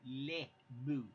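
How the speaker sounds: a cow that only speaks French; French cow moo. Retold or imitated. Husband voicing a French cow for viewers. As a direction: moo with a mock French accent. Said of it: "French cow".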